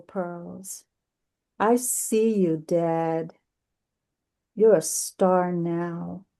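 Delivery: measured recital with long pauses between phrases; poetry reading. Acted. Poet reads a memorial poem to a gathering, measured poetry reading. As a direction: recite it as an elegy, lingering on line endings.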